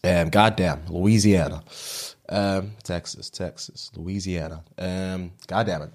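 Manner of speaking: practising a Southern twang; Southern American accent. Acted. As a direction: feel your way into a Louisiana accent. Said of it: "Southern American".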